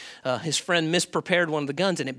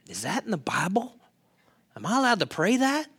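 shocked reader; 4 semitones higher than usual. Retold or imitated. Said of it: "you're like".

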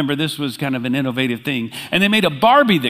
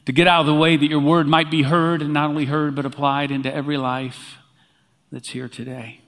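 pastor praying before the message, hushed and earnest; prayer; 2 semitones lower than usual. Acted. Opening prayer before the sermon.

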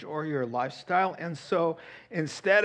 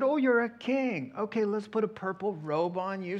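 mocking soldiers; 6 semitones higher than usual. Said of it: "Oh, they mocked him".

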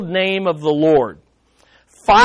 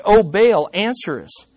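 a touch of a pleading cry, fading off; mock crying out. Preacher imitating prophets crying to Baal, mild mock cry. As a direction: call it out, then let it drop away. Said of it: "you have to cry out many times".

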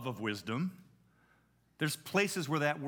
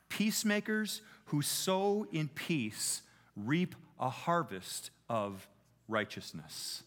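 scripture reading. Acted. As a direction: read the verses aloud to the congregation, deliberately. Reads James 3 aloud.

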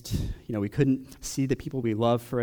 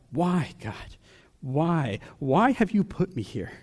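crying out to God; 3 semitones higher, slower than usual. Retold or imitated. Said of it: "driven you to cry out".

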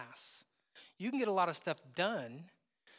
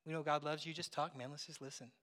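gently lowered voice, settling softer; quiet listener; 3 semitones lower, 5 dB quieter than usual. Retold or imitated. Pastor offering to just listen to a visitor, quietly. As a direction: ease down into quiet, unpressured talk. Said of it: "I just sat and was quiet and just said".

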